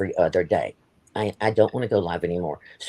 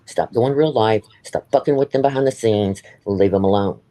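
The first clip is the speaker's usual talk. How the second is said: louder, firm scolding orders; real anger at someone who keeps using people; angry demands; 6 dB louder than usual. Real, not acted. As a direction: lay down the law, fed up. Angry demands at former friend.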